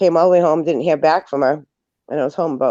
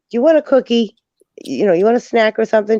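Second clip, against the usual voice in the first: high, louder coaxing offer; bright high nurse voice; sing-song caregiver; 7 semitones higher, 4 dB louder, faster than usual. Retold or imitated. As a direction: coax her like talking to a child. Caregiver coaxing elderly woman.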